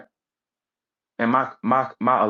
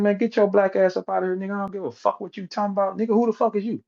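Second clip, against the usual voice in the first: angry doctor; 8 semitones higher, faster than usual. Retold or imitated. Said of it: "the doctor said".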